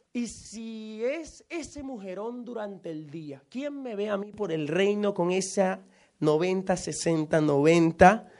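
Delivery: slow, musing knight weighing his options; lightly voiced worried knight; knight's inner voice. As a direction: drawl it out as the torn knight. Knight muses about the witch.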